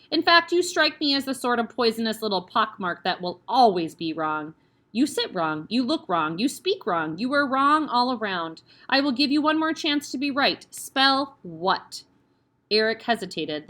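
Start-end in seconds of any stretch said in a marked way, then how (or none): 0.1-12.0 loud, scornful, rising; contemptuous tirade. Acted. Headmistress insults the boy, loud and scornful. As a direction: pile on the insults.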